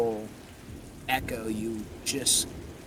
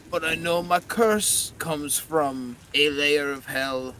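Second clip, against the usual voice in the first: disembodied voice; 2 semitones higher, 5 dB louder than usual. Acted. Winston's skull answers the hunter's question, hollow and strained. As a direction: speak like a ghost trapped in bone. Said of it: "disembodied version of Winston's voice".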